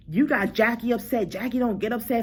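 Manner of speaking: imitating a heated accusation, pitch climbing; mildly indignant mock scolding; getting heated. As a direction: work yourself up as you retell it. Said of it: "she's getting heated or whatever".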